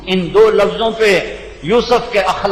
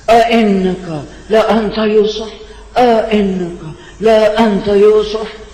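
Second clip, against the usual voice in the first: fearful disbelief; 2 semitones higher than usual. Shown as a demonstration. Brothers recognizing Yusuf, stunned and fearful. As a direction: say it as if fearing it is really him. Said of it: "ڈر اور خوف اور امید".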